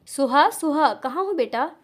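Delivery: mother calling her daughter. Acted. Mother calls daughter through house. (माँ की ऊँची पुकार)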